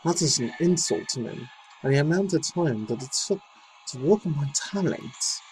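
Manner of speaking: reading her statement in an imitated British accent; mock British accent. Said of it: "I was doing a British accent".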